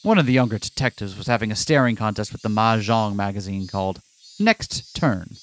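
plain. Acted. Reads game narration aloud.

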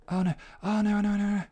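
rising panic, high and loud; oh no, realizing the mistake; alarmed. Real, not acted. Realizing time lost.

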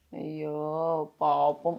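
soft, low sympathetic murmur; tender pity. Real, not acted. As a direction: feel sorry for the little one, softly. Pitying the upset child.

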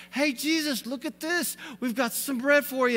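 excited disciples. Retold or imitated. Disciples showing Jesus the bread, high excited voice. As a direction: show off the bread like kids proud of it. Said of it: "so excited".

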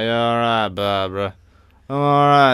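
imitated Bolton accent; mock northern English Bolton voice. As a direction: put on a Bolton accent greeting. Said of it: "Bolton is a bit like".

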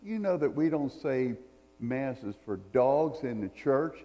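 mild mock indignation, the last words slowed; a lightly voiced stern priest refusing; indignant priest. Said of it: "The priest got indignant and said".

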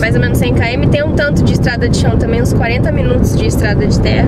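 talking with chocolate in mouth; mouth full. Real, not acted. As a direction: speak around a bite of chocolate. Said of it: "Tô falando com chocolate na boca".

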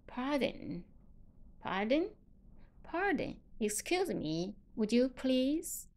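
gently softened, polite request. Shown as a demonstration. Teacher showing how to soften the tone, gentle and polite. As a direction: ease off and ask softly. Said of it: "如果我们把语气缓和下来".

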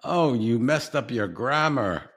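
high, hammed-up fussy correcting; mock scolding. Mimics an imagined scolding critic.

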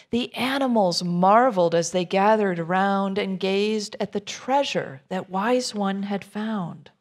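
lively rhyming read-aloud to a group; story narration. A narrator's reading. Reading a children's picture book to a group, lively storyteller voice. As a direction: bounce the rhymes for listeners.

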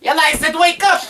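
put-on playful parent shouting the baby awake; mock stern wake-up. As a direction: pretend to be strict, playfully. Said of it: "No laughing".

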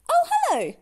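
very high, loud hello; smiling greeting. A narrator's reading. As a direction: greet brightly through a smile. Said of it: "smiled Little Miss Magic".

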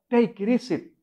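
English said with a Spanish accent, tapped r. Shown as a demonstration. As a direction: joke English in a Latin American Spanish accent. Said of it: "Así dicen allá, así hablan".

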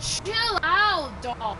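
shouted chill out; loud. Real, not acted. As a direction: yell it at him. Friend shouting at partner.

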